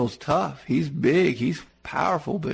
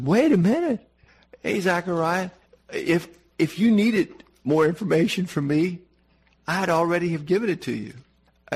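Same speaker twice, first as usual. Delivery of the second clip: indignant angel; 3 semitones higher than usual. Retold or imitated. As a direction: play an offended archangel snapping back. Gabriel scolding Zechariah, retold.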